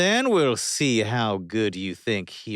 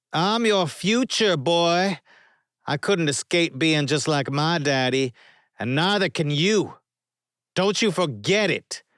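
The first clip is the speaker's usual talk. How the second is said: loud, much higher mocking bully; taunting villain; 11 semitones higher, 7 dB louder than usual. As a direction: jeer at the boy like a cruel father. Arlo taunts them.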